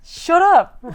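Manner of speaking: unvoiced hushed shut up; whisper. Real, not acted. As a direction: hiss it under your breath. Playful hush back at friend.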